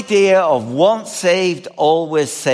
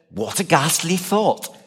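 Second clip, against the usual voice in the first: a light put-on English accent; lightly mock an English accent; 4 dB quieter than usual. Preacher quoting the Phillips translation in a mild English accent. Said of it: "as good as my, uh, English accent will ever get".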